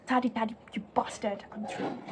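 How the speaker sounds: a bitter hushed recital of the poem's end; hushed recitation. Shown as a demonstration. Teacher recites the poem's closing lines, whispered.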